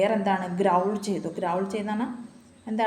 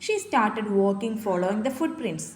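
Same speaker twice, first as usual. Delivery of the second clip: put-on slow, careful story reading for a child; slow reading aloud; much slower than usual. Shown as a demonstration. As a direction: read it out slowly, word by word. Reads English story slowly aloud. (കുട്ടിക്ക് പതുക്കെ വായിച്ചുകൊടുക്കുന്നു)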